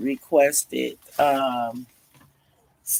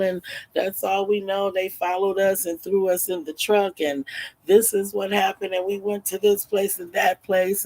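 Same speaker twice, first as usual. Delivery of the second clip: put-on children recounting; 5 semitones higher than usual. Freed children explain what happened.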